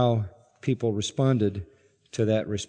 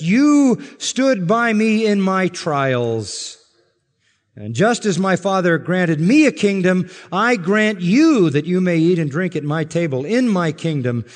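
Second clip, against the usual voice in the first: booming pulpit reading, high and loud; preaching at full force; 6 semitones higher, 5 dB louder than usual. Acted.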